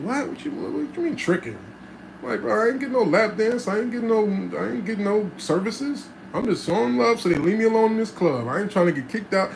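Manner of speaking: insisting he's just showing love; indignant protest. Retold or imitated. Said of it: "I said".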